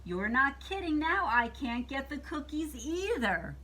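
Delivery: mild storybook exasperation; exasperated witch. Acted. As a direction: gripe back in a lightly voiced witch.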